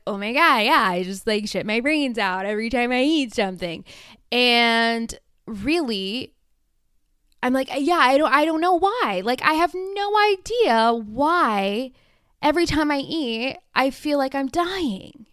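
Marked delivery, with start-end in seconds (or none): 0.1-3.8 mock past self. Imitating her own past self. 7.8-15.3 a mock-innocent past self moaning to friends; whiny clueless self. Imitating her clueless past self.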